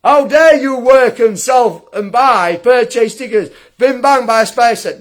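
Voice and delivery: mocking his critic. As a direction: mimic the critic, a touch scornful.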